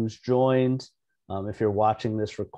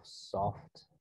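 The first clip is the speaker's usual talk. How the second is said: quiet meditation cue word; said quietly to oneself; 2 semitones lower, 12 dB quieter than usual. Shown as a demonstration. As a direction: murmur it gently as a breathing cue. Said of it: "saying quietly to yourself".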